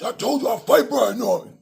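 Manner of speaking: mocking a boxer's loud trash talk; mock yelling. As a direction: imitate a fighter's brash camera rant. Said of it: "the video you heard of him yelling and screaming".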